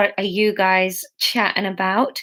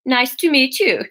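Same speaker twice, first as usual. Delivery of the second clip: a faltering attempt at a Swedish chef; mock Swedish accent, unsure; 3 semitones higher than usual. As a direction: try a Swedish lilt and miss. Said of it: "Is that a Swedish accent".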